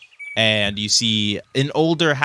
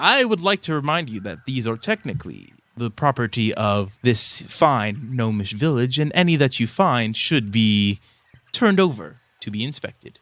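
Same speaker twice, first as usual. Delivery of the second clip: chuckling elvish tinkerer. Acted. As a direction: remind them of the rules, drawing words out.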